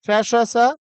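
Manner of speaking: "श, श, स" as sha, retroflex sha, sa; two sh sounds, then a plain s in "श, श, स"; three sibilants. Shown as a demonstration. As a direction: separate each sibilant of "श, श, स". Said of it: "इनका उच्चारण कैसे होगा".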